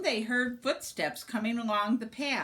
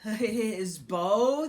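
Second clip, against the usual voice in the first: startled stammer; 2 semitones higher, 5 dB louder than usual. Acted. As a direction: caught off guard, voice rising. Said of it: "they stammered in surprise".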